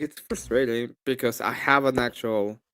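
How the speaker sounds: ordinary delivery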